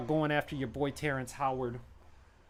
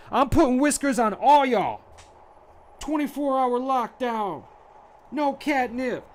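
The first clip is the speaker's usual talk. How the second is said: high, loud hammed-up yells; mock villain shouting; 12 semitones higher, 14 dB louder than usual. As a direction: bellow like a movie tough guy. Movie-villain shouting parody.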